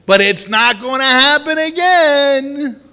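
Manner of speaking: acted resolute vow; defiant vow. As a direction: swear it won't happen again. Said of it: "said in your heart".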